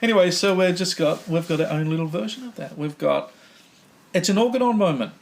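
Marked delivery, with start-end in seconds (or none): 4.1-5.1 high, loud segment call; excited announcement. Pretend. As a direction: announce it like a sports show host.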